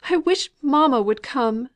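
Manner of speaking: high, loud cry of panic; frightened wail. A narrator's reading. Fanny panicking beside the fainted girl, a frightened high cry. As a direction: plead for help, scared. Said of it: "wringing her hands".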